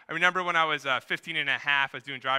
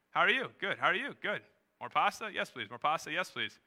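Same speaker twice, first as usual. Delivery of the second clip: bored couple on date; 3 semitones higher than usual. Acted. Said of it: "imagine doing the same date with the same words".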